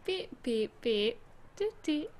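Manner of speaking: beeping robot noises; robot beeps. Pretend. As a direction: beep like a toy robot. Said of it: "Sounds like a robot that can't talk properly".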